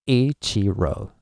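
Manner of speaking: Ichiro slowly stretched, long opening I; slow English-style EE-chee-ro; English-style pronunciation. Shown as a demonstration. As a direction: draw out each syllable of Ichiro. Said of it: "you would go like".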